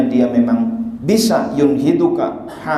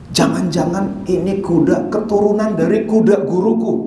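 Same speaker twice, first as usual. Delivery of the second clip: higher, apprehensive voice; acted reverent worry; 5 semitones higher than usual. Kiai fearing it descends from his teacher's horse, worried. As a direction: voice a mildly alarmed suspicion.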